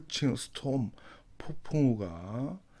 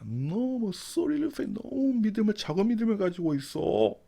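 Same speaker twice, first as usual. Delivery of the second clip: lightly voiced rebuke; 10 semitones higher than usual. Teacher voicing Jesus's rebuke.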